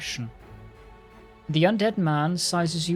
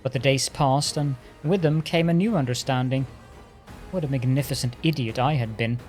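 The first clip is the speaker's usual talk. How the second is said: arrogant lich voice. Acted. Lich tells his history.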